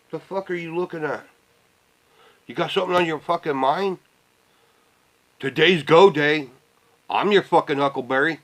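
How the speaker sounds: imitating himself squaring up to a stranger; mock confrontation. Staring down a stranger at the store, mock menacing challenge.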